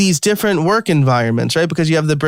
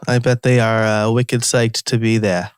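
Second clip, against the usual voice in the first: Boston accent; 3 semitones lower than usual. Shown as a demonstration. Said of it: "that's my best Boston accent".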